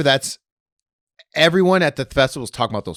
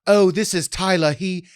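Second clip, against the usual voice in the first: high, raised storyteller voice; mock ghost-tour guide; 9 semitones higher, 5 dB louder than usual. Comic inventing a Coachella ghost story, mock tour guide. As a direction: introduce the party ghost with mock awe. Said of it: "it's not like".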